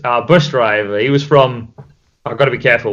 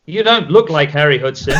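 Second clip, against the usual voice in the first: laughing quote. Retold or imitated.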